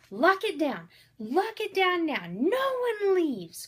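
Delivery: high, loud commanding shout; Corey ordering everyone to lock the place down, shouting; yelling orders. A narrator's reading. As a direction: bark the lockdown like a cop in charge. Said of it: "Corey was yelling".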